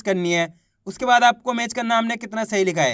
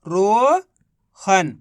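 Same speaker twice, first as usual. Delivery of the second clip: रोहन stretched very slowly as one word; very slowly joining रो and हन; drawn-out blend; 2 semitones lower, much slower than usual. Shown as a demonstration. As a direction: draw out रोहन long and slow. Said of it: "तो मिलके बन गया".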